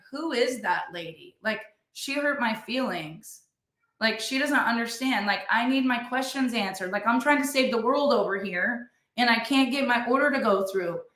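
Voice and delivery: imitating hurt, sulky members; whiny hurt complaint. Group members hurt by Callie.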